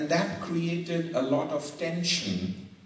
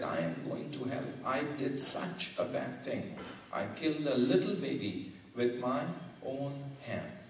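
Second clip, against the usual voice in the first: softer, quick, a hint of tears; mild retold sobbing; 6 dB quieter than usual. A guilt-stricken man confessing to Gandhi, softly tearful. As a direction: lightly voice a broken man confessing. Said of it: "and he was sobbing".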